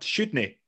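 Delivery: "shouldn't he" run together as "shudn e" without a t; the slurred Scottish "shouldn't he" again, t gone. Shown as a demonstration. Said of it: "There is no word".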